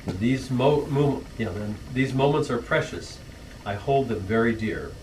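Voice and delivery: rhythmic rhyming verse, read as a toast; poem recital. Acted. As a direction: recite the family poem with a gentle lilt to the rhymes. Reads rhyming anniversary poem.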